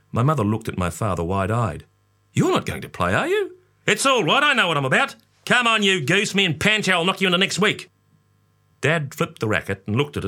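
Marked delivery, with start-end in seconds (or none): 2.3-3.6 mother. A narrator's reading. Mother voiced in story. 3.9-7.9 father. A narrator's reading. Father voiced in story.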